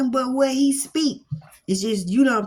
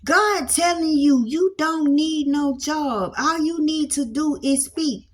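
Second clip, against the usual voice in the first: preaching emphasis; 6 semitones higher than usual. Acted. Preacher pressing the congregation about work and faith, raised voice. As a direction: drive it home like a sermon.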